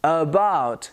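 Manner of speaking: "About" as "uh-BOUT"; careful "About" with neutral first vowel; weak "uh" opening on "About"; schwa demo. Shown as a demonstration. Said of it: "the beginning of the word".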